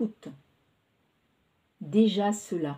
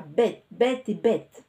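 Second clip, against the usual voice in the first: slow, louder, drawn-out self-reproach; mock self-scolding; 5 dB louder, slower than usual. A narrator's reading. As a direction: hammer each bête, half playful. Clara scolds herself, exaggerating.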